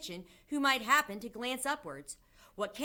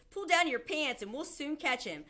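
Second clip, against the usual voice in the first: higher-pitched, mildly raised voice; shouted order; 7 semitones higher, 3 dB louder than usual. A narrator's reading. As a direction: call instructions over the commotion. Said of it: "someone else shouted".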